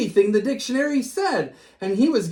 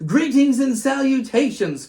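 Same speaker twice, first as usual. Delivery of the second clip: pompous dictionary; 6 semitones higher, 4 dB louder than usual. A narrator's reading. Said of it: "called the dictionary".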